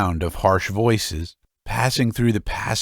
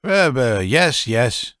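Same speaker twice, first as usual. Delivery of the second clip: put-on old man answering the virago, flustered; 3 semitones higher, slower than usual. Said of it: "muttered the old man".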